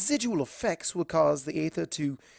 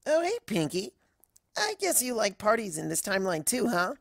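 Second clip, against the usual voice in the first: higher, breezy pegasus voice; casual and friendly, pitched up; Cloud Kicker; 6 semitones higher than usual. Acted. Cloud Kicker greets Pinkie, breezy and higher.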